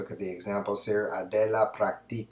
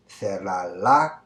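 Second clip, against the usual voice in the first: "cerrarla" drawn out with a rise; slow option; 5 dB louder, much slower than usual. Shown as a demonstration. Teacher reading one option to students. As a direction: offer "cerrarla" as one choice, slowly. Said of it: "would you say".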